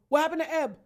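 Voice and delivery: imitating a worried brother-in-law shouting; Dale. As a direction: call out in alarm from the background. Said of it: "I could hear my brother-in-law, Dale, in the background going".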